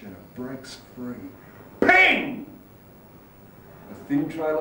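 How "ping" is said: sudden high, loud ping; bright burst of sound effect; imitated pinging sound. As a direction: pop it out sharply, pitched up. Imitates fruit shooting out.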